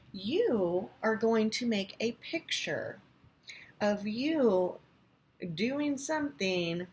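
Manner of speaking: hushed, slow whisper of the task. Real, not acted. Teacher whispers the assignment to her kindergarten class. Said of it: "whispering the assignment".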